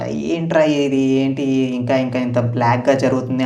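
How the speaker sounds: drawn-out bored grumble. Retold or imitated. Viewer grumbling to self during a dull live show, bored. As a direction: drag it out in a dull monotone. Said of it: "live చూసేటప్పుడు కొన్నిసార్లు bore కొడుతుంది".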